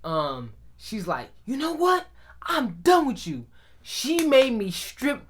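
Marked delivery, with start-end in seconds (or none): 1.5-3.5 imitated angry mom, pitched up; fed-up mom. Mom to son after whooping him, raised angry voice. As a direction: play a mother who has had enough.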